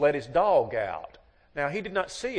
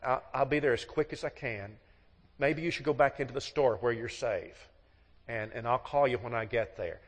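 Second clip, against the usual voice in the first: reassuring husband. Retold or imitated. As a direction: settle her down gently. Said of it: "And you say".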